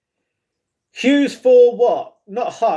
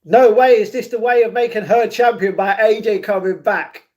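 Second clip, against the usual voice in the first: ordinary delivery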